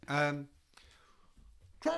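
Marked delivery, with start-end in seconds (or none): 1.8-1.9 high, loud bellow through a door; furious shout. Retold or imitated. Drummer banging on the manager's door, high furious shout. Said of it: "bang on the door, Nico shouting".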